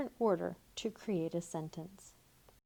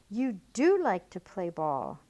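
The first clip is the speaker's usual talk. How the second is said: louder, with a falling push on do; excited exclamation; 8 dB louder, slower than usual. Shown as a demonstration. Teacher showing how an exclamation point is read, excited. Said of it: "with an exclamation point".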